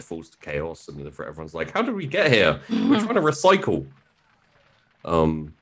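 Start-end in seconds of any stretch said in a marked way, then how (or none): 1.7-3.9 high, louder mock-bewildered voice; high-pitched retold dismay; mock bewilderment. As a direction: act out everyone's baffled protest, pitched up. Voicing bewildered planet after its fall.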